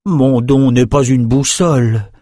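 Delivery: slow, lightly voiced wizard's retort; Rennes replying. Rennes answering the soldier, a slow dry retort. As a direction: set him straight, slowly. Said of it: "répondit Rennes".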